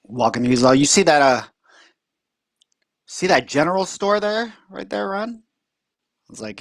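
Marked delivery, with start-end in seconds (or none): 0.8-5.4 high-pitched imitation of the uncle; proud uncle pointing out the town, voiced high.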